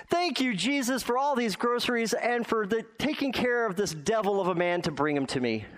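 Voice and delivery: put-on high, gleeful old lady's thank you; mock old woman praising Jesus in reply; old woman's thanks. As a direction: lift it high in triumphant gratitude. Old woman answers atheist neighbor.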